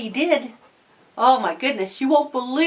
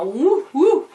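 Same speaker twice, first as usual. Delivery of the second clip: two high hooting whoops; playful "woo, woo"; 4 semitones higher than usual. Retold or imitated. Showing how Jaden moved his eyebrow, playful hooting. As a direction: imitate an eyebrow wiggle with hoots. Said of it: "and go".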